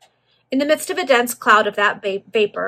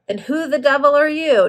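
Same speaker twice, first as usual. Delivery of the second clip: higher, louder angry challenge; pugnacious demand; 6 semitones higher, 6 dB louder than usual. A narrator's reading. Pugilistic man challenging his visitor, angry demand. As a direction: demand it like a man ready to fight. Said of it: "demanded the pugilistic phenomenon".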